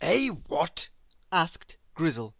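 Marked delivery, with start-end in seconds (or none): 0.0-0.9 a heavy bear, puzzled and dull; gloomy bear voice. Acted. Grizzle the bear puzzled by Squeak, gloomy bear voice.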